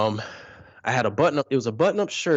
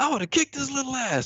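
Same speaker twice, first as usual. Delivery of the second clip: furious, livid rant, higher pitch; 14 semitones higher than usual. Retelling a mother's reaction to an old story: imitating a livid mom. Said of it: "She was livid".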